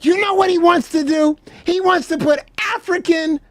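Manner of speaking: can barely get it out for laughing; laughing disbelief. Real, not acted. Host retelling the crocodile plan while cracking up.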